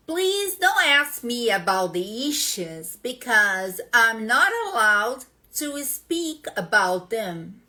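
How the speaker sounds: slow English, every syllable forced out distinctly; "Please don't ask me about the issues" spelled out syllable by syllable, slowly; forced clear syllables. Shown as a demonstration. Teacher reads a test sentence so the computer understands her, slow and over-articulated. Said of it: "tô forçando as sílabas aqui".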